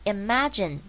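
IMAGINE with the stress on ma; 重音在ma. Shown as a demonstration. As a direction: lean on "ma" in "imagine", a as in apple. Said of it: "重音在ma身上". (imagine重音放在ma)

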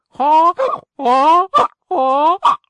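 loud, high donkey braying. Acted. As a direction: bray it out like a donkey. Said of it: "they burst forth into loud donkey brays".

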